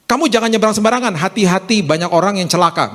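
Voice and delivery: high pitch easing down into advice; acted careful parental warning. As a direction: caution a child without threatening. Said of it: "Beda kan langsung".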